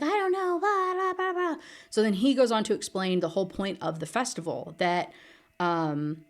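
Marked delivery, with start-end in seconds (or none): 0.0-1.6 very high-pitched mocking whine of blahs; mock flustered protest. Heroine answering the yelling fairy, mock flustered protest. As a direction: imitate a helpless comeback far up in pitch.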